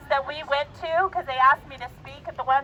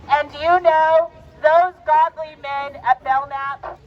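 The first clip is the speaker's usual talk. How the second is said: slow, louder, leaning on you; slow emphatic praise; 4 dB louder, slower than usual. Real, not acted. Speaker praising the Belknap men, slow and emphatic. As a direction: build it up slowly for the crowd.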